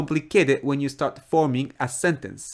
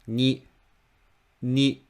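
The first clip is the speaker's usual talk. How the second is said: "ni" short and kept low; low pitch. Shown as a demonstration. Teacher shows the first mora, "ni" in low pitch. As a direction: say "ni" on a low note. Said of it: "read the first mora low".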